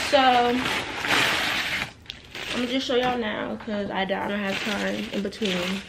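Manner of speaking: speaking with a retainer in; wearing a retainer. Real, not acted. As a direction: retainer in, slightly muffled words. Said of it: "I have my retainer in".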